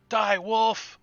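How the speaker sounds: high, loud, drawn-out war cry; high, loud battle cry while running at a wolf; battle yell. Acted. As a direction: charge in screaming at the wolf. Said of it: "he yells as he runs".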